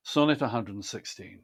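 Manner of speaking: measured recital, stressing the marked words; measured sonnet reading with marked stresses and enjambment; poem reading. Acted. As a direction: read the sonnet as marked, with weight.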